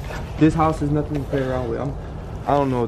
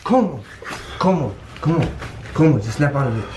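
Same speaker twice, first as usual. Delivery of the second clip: urgent calling. Real, not acted. Urging friend to snap out.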